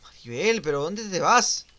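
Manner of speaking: loud, high, stretched-out question; calling out. Real, not acted. Player calling after fleeing Maribel, protesting shout. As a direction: shout after someone getting away.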